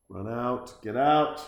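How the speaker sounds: a sudden loud shout; yelled warning. Real, not acted. To Rick fleeing the demon dog, a loud yell. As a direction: bark it at the screen. Yelling at the movie character.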